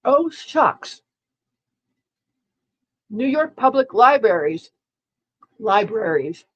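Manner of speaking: talking through a mouthful; words round a bite of food; mouth full. Real, not acted. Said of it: "I'm trying to talk with some food in my mouth".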